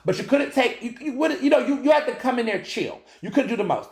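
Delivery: talking through a light laugh. Real, not acted. Telling listeners about VIP box rules, laughing lightly. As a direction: giggle the rules out, amused at himself.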